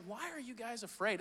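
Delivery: casual unbothered question. Retold or imitated. Sleepy Jesus in sinking boat.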